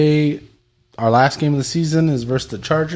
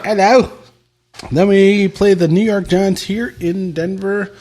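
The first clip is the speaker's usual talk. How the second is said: put-on London accent; 6 semitones higher, 4 dB louder than usual.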